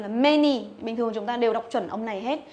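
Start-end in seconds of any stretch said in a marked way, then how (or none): 0.1-0.6 "many" with its A said as E, firmly louder; confident model "many" with a short E; E sound. Shown as a demonstration. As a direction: say "many" like "men-ee". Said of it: "Đương nhiên là âm E rồi".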